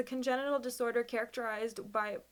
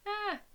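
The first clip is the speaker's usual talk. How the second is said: teary half laugh; 10 semitones higher than usual. Real, not acted. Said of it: "Okay, one sec".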